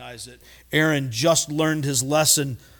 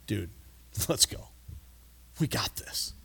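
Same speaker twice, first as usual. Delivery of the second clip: laid-back Caleb; 6 semitones lower, 12 dB quieter than usual. Retold or imitated. Caleb casually urging the people on.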